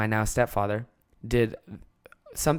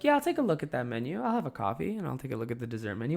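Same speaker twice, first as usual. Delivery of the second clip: quiet glaring stepdad; 7 dB quieter, faster than usual. Retold or imitated. Stepdad glaring at impatient kid over coffee, soft and pointed. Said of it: "while, like, glaring at me".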